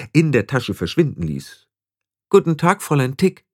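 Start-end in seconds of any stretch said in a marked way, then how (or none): 2.3-3.5 raised, high-pitched greeting; loud greeting. A narrator's reading. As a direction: greet pointedly so it carries. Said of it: "sagte sie laut". (laut und deutlich gegrüßt)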